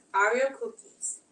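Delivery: slow, "Oreo" stretched in a New York accent; a tentative New York accent; New York accent try. Shown as a demonstration. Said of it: "How else would you pronounce it if you're from New York".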